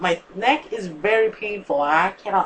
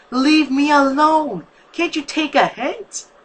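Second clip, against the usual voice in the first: much higher, loud, slow furious yell; angry yell; 10 semitones higher, 7 dB louder, slower than usual. A narrator's reading. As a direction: shout her away. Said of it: "yelled meaningfully".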